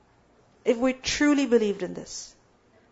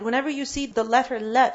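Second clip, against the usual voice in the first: ordinary talk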